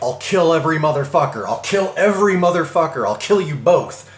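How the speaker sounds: retold angry yell. Rage-fueled caller threatens narrator by phone, retold angry yell. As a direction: imitate a raging caller yelling threats. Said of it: "he screams at me".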